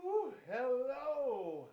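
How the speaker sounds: panting after a rush; breathless, gasping for air; out of breath. Real, not acted. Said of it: "I'm very out of breath".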